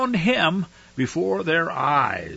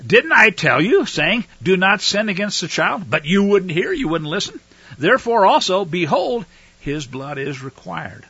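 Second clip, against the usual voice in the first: reproachful rebuke; 3 semitones higher, 4 dB louder than usual. Acted. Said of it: "He says to them".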